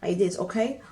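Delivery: talking with braces in; words slightly thick from braces. Real, not acted. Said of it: "excuse me if I'm talking like, like this".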